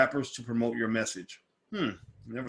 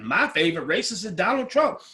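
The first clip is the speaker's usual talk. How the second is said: mocking; 7 semitones higher, 4 dB louder than usual. Mocking partisan voters.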